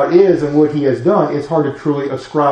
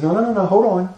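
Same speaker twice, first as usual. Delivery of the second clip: firm Jesus reply; 4 dB quieter, faster than usual. Acted. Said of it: "Jesus says".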